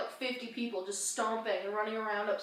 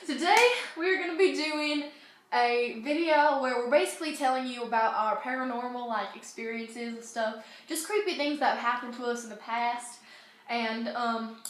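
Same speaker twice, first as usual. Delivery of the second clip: put-on British accent; 3 dB louder than usual. Vlogger explains the video idea in a mild British accent. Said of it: "I haven't done this accent in forever".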